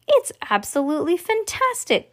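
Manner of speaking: high-pitched wonder; amazed gasp. A narrator's reading. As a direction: gasp it out in astonishment. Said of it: "gasped Grandpa Joe".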